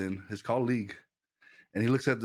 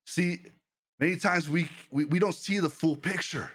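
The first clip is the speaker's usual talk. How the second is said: fervent preaching; 2 semitones higher than usual. Acted. Preacher rallying his Twitch chat to trust God, fervent preaching. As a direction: preach it, pushing the congregation to trust.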